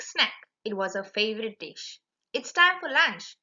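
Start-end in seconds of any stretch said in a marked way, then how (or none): 2.3-3.4 gleeful. Acted. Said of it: "Nicole thought with a grin".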